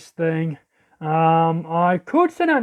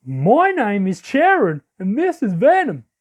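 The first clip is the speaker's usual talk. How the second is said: put-on southern accent. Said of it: "why am I doing a southern accent?".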